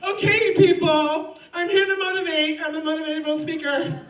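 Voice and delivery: smug teacher voice. Retold or imitated. Imitating the yoga teacher addressing class, pompous. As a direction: play the lazy self-important trainer. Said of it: "You know what he does?".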